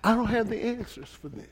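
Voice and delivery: pleading prayer, building from hushed to urgent; acted prayer. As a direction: worshipper voiced praying in desperation. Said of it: "you begin to say".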